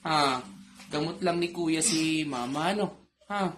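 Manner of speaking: soothing. Real, not acted. Healer comforts a child scared for mama, soothing. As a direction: gently reassure a frightened little one.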